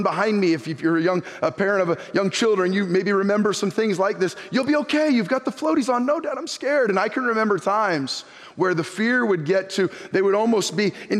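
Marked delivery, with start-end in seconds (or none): 4.5-6.1 a higher, lightly voiced dad coaxing his child. Dad coaxing his child into the pool, lightly voiced. 6.1-6.9 higher, lightly voiced scared kid; scared child. Child at the pool edge pleading with dad, mild imitation.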